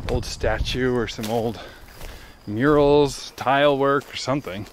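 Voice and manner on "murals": ordinary delivery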